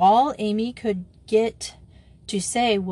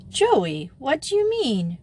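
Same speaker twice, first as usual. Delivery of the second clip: astounded cry; 7 semitones higher, 3 dB louder than usual. A narrator's reading. Wanda questioning Joey, astounded. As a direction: pitch lifting in astonishment. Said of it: "cried Wanda, astounded".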